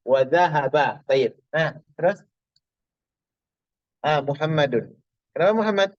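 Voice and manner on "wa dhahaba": dhahaba read out with final "a"; akhiran fathah. Shown as a demonstration. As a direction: close dhahaba on an open -a. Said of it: "mabni alal al-fath". (dhahaba dibaca fathah di akhir)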